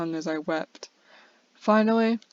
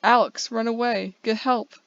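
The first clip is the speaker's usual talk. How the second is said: raised, urgent call to flee; screaming for help; 3 semitones higher, 4 dB louder than usual. Acted. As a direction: yell at Alex to run and get help.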